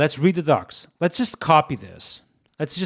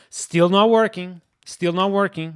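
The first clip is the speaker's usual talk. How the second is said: frustrated; 3 semitones higher, 5 dB louder than usual. Real, not acted. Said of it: "and I'm getting frustrated".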